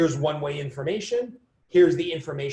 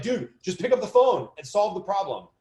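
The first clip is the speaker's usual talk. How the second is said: exasperated quote; 5 semitones higher, 4 dB louder than usual. Retold or imitated. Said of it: "where you're like".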